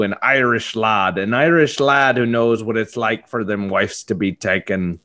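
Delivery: lightly put-on Irish accent; a hint of Irish brogue, hammed up; bad Liam Neeson impression. Mock Irish Liam Neeson taunting a cuckolded husband. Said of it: "worst Liam Neeson impression of all time".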